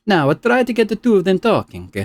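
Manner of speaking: high, excited scholar; excited researcher. Acted. Scholar announces her findings to a colleague, high and excited. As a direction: report a discovery. Belasag voice.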